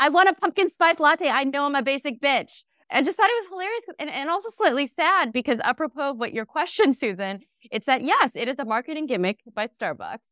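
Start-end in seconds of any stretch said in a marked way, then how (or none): 0.0-2.6 put-on mock scream. Retelling how an embarrassed lady finally ordered at Starbucks, imitating someone screaming. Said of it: "she finally screams".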